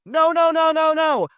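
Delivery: high, loud yell, one no after another; yelling at the screen. Retold or imitated. Moviegoer retelling an outburst at Friendship, high yell. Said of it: "I yelled at the screen loudly".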